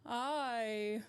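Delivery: half-hearted villainess voice; drawn-out start, lightly voiced evil queen; a hint of theatrical villain; Maleficent. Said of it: "Maleficent would be very much like".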